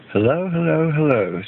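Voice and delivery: a hint of a bright camp leader calling hello; gently voiced welcoming host; camp leader's greeting. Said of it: "said Miss Stringfellow, the camp leader".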